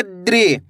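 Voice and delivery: द्रि said as one syllable, d running straight into ri; teacher modelling द्रि for pupils; pronunciation demo. Shown as a demonstration. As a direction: join the d and ri in द्रि. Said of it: "दा का उच्चारण कैसे करेंगे".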